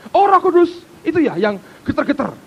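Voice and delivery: high, loud mock exclamation; hammed-up high-pitched mockery; dismissive churchgoer. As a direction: parody a scoffer imitating wailers, rising into a high wail. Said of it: "mesti berkata".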